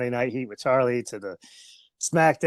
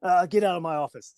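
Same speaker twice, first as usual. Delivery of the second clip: Vince McMahon impression; 5 semitones higher than usual. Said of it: "I wanna go thank Vince McMahon".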